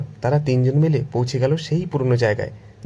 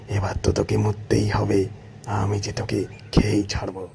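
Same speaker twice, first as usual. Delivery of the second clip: gloating tiger; 2 semitones lower than usual. Acted. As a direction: savour the threat as a hungry beast. Delighted tiger plots to kill.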